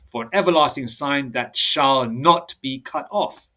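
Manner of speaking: slow, declaimed Bible verse; formal, drawn-out reading from scripture. Acted. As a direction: recite the verse with deliberate weight. Reads scripture aloud.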